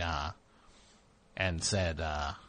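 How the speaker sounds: lightly voiced co-host, livelier at first, then sinking low; other podcast host. Mocking the other guy on the show, lightly put-on co-host voice. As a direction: imitate the second host, lifting early then dropping off. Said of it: "other guy talks like this".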